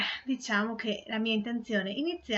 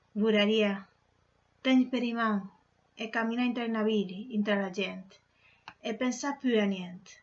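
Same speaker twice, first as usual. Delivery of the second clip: poem recitation. Acted. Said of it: "recitare una poesia che ho scritto in milanese".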